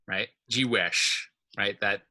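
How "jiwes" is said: "Jewish" said "ji-WESH", weight on the second syllable; "Jewish" as Klingon, stressed on its final syllable. Shown as a demonstration. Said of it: "the stress is falling on the".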